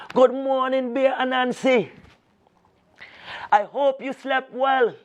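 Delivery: high sly voice of the alligator greeting his guest. Acted. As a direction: purr the greeting like a crafty alligator.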